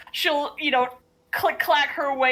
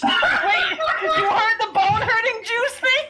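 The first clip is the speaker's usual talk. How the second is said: surprised; 10 semitones higher, 3 dB louder than usual. Real, not acted. Surprised laughing question.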